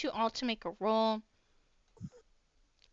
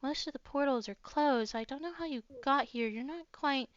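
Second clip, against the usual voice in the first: softer, confiding murmur; hushed voice; 6 dB quieter than usual. Acted. Bunny knight warns the strangers in secret, hushed. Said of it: "He kinda hushes his voice".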